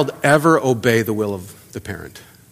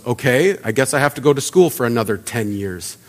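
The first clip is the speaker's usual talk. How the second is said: grudging back talk; 4 semitones lower, 7 dB quieter than usual. Retold or imitated. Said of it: "I gave him a little back talk".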